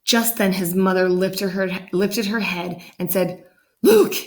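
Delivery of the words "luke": high, loud call of his name; calling Luke. Acted. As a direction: call him from the other room. Mother calls her son.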